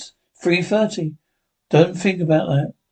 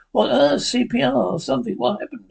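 higher-pitched, urgent questions; acted alarm; 5 semitones higher than usual. Bystander reacting to someone not breathing, alarmed.

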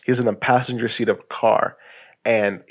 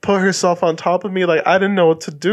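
put-on crying boy; 4 semitones higher than usual. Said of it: "the guy that's crying, he's like".

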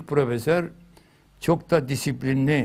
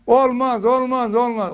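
firm refusal; 7 semitones higher, 4 dB louder than usual. Acted. Acted refusal of erased curse.

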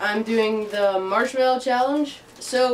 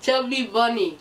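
cheeks stuffed full. Real, not acted. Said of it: "marshmallows in your mouth".

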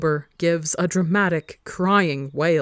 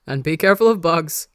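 louder called-out shriek; mild shriek; 7 dB louder than usual. A narrator's reading. Wilbur calling out while exploring, a loud mild shriek. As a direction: squeal it out across the garden. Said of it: "Wilbur shrieks".

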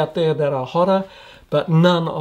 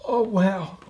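strained, thin voice from the heat; losing voice; 4 semitones higher, 8 dB quieter than usual. Real, not acted. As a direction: voice giving out after the pepper. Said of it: "I'm losing my voice".

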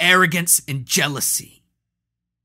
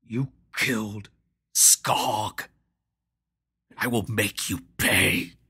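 clenched teeth. Acted. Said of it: "through clenched teeth".

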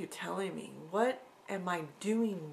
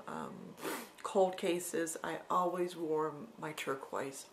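usual speaking voice

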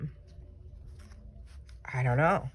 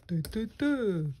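higher-pitched dopey snail noises; 5 semitones higher than usual. Pretend. Crafter guessing how a snail talks, higher snail voice. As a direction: babble like a little cartoon snail. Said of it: "that's the way a snail would talk".

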